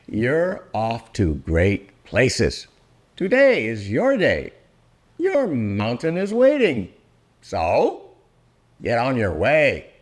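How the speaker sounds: expressive read-aloud of a rhyming picture book; storybook reading. Acted. Reading Oh, the Places You'll Go aloud to grown-up listeners, lively storybook narration. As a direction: read it like a bedtime rhyme, savouring each line.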